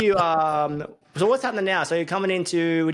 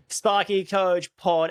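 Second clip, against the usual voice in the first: high, drawn-out podcast opener; show intro; 5 semitones higher, 3 dB louder, slower than usual. Pretend. Host kicking off the podcast, hammed-up intro. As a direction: stretch out the show's name, pitched up.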